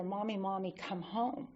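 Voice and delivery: soft, pleading child's voice, lightly voiced; a hint of a small son begging mommy to come home; crying little boy. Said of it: "And he's crying".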